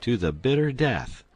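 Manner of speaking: mock-grand pledge; solemn oath. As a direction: swear it like a stage hero. Duke swears loyalty.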